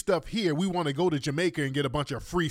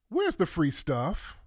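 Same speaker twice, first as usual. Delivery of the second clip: "Where's the free stuff?" slow and flat in normal pitch, rising at end; drawn-out sarcastic repeat; dry repeat; slower than usual. Real, not acted. Repeats question, high then low.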